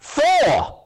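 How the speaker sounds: high, sudden yelp; cadet's high-pitched panicked guess; blurted answer. Acted. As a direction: blurt it out all at once. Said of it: "And then he blurts out".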